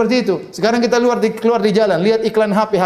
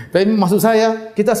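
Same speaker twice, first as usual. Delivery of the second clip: laughing; 5 semitones higher than usual. Real, not acted. Laughing after own joke.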